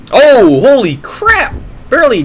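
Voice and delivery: sudden yelp of alarm, then relief; excited shout. Real, not acted. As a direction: gasp it out at the near miss. Near fall on spider flip.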